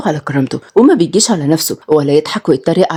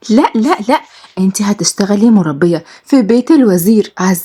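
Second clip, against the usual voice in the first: put-on lively young women. Two friends bickering over a new job, lightly raised and lively. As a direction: trade quick lines like close friends. Friends argue then reassure.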